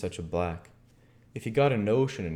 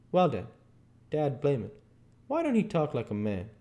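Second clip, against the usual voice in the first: lightly voiced dialect outburst; Jim, exasperated; 6 semitones higher than usual. Jim springs his conclusion on Huck, exasperated. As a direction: drive the point home in dialect.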